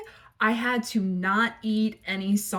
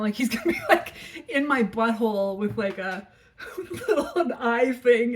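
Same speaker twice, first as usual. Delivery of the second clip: laughing; 2 semitones higher than usual. Real, not acted. Laughing at colonoscopy image.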